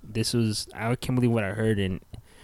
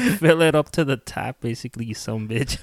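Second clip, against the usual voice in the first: gruff dad; 3 semitones higher, 5 dB louder than usual. Retold or imitated. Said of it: "He's like".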